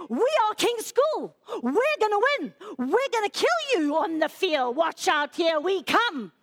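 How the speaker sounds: boastful school chant before a match; war cry. Retold or imitated. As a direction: imitate a team's rousing war cry. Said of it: "the school did their war cry".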